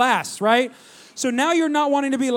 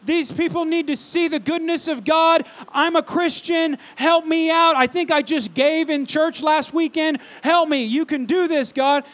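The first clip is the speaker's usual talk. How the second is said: higher, urgent mock begging; pleading prayer; 3 semitones higher than usual. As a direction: beg God as if retelling a desperate kid's prayer. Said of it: "I'm praying, and I'm seeking God".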